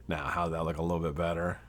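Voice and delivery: whispered while working; quiet concentrated whisper; whisper to self. Real, not acted. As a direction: breathe the words as you fiddle. Rewicking quietly to himself.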